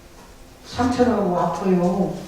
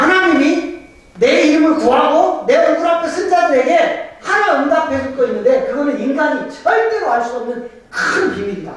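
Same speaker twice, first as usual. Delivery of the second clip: lightly voiced God; 5 semitones higher than usual. Voicing God's promise.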